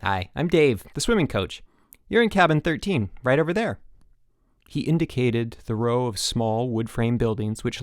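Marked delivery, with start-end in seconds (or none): 0.0-3.8 high, bright eager camp coach; cheery coach. Acted. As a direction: greet him like a peppy gym teacher. Dave the chipper coach.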